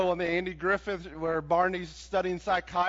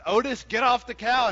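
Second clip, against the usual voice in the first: mild steamed Barney; 3 semitones higher, 4 dB louder than usual. Retold or imitated. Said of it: "Barney's steamed".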